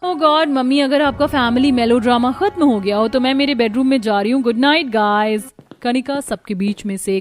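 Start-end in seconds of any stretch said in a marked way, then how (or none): 0.0-5.5 louder, eye-rolling dismissal; bored annoyance. Acted. Kanika dismisses her mother's melodrama, louder and annoyed. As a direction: brush off the family ritual. Spoiled girl dismisses family.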